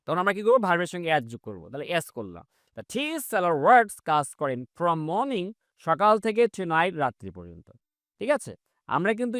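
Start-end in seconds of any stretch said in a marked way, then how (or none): 2.8-4.0 very slow, word by word; spaced-out classroom read; slow model reading. Shown as a demonstration. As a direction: dictate each English word slowly for learners. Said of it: "slow model sentence".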